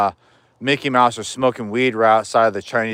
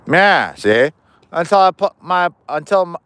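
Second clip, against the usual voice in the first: Bugsy Siegel gangster voice; 5 semitones higher than usual. Pretend. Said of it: "I'm trying to do some stupid voice like a nineteen twenties Bugsy Siegel".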